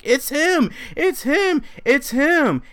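accusing scream. Retold or imitated. Woman pointing and screaming at him.

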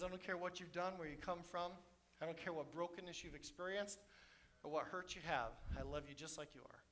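tender God. Acted. God's tender words to people.

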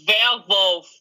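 slow German-accented "werewolf"; German pronunciation of "werewolf". Shown as a demonstration. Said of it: "werewolf with a German accent".

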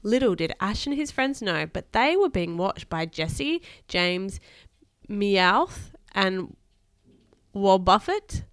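put-on lively read-aloud to a child; expressive bedtime story reading. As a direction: read a children's adventure aloud with emphatic key words.

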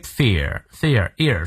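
FEAR with both vowel sounds complete; full diphthong. Shown as a demonstration. Teacher drilling fear for learners, full diphthong. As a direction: glide fully through the "ear" in "fear". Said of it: "双音到位".

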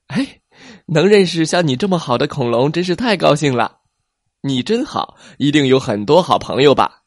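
high, fast happy voice; delighted plesiosaur. Acted. Plesiosaur happily praising T-rex. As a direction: gush with admiration.

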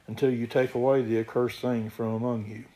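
steady, emphatic Bible reading; scripture reading. Acted. Preacher reads Joshua's story to the congregation, scripture reading. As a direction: read the verses out firmly to the congregation.

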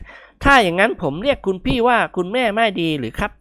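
butter up a future mother-in-law; ingratiating suitor. Acted. Young man offering to call the lady mother, ingratiating.

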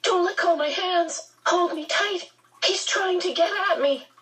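put-on high, pleading panicked child. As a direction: cry out in sudden panic. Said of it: "his voice held panic".

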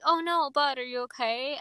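lightly imitated concern, rising then softening; mock parental fussing, gentle at the end; parent-like comforting. Friend comforting someone in a live stream, imitated parental concern. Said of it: "we literally sound like their parents".

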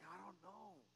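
barely voiced "I don't know"; very soft shrug. Pastor shrugging to a counselee, very soft. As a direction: let it fall away to nothing. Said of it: "I'm like".

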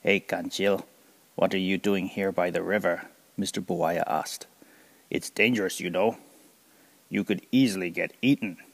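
big crocodile with a sly smile, teasing. Acted. Crocodile warning Kancil he could be eaten, sly and lightly voiced.

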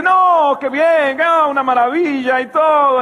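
loud, high phone gush. Retold or imitated. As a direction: rave like it's the best news ever. Woman gushing on the phone.

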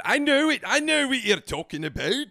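high, loud mock Scottish brogue; overdone Scottish accent, pitched right up; fake Scottish accent. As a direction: protest loudly, still in the fake Scottish accent. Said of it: "that this is a fake accent".

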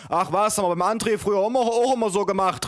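high-pitched dismissive mother; storyteller's high mother voice; mother calling out. A narrator's reading. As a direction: wave it off in a high, hurried voice. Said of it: "rief meine Mutter".

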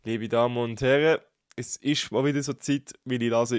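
nasal, blocked-nose voice; talking through a blocked nose; stuffy nose. Real, not acted. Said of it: "ist zu und ich rede jetzt grad wieder richtig schön nasal".

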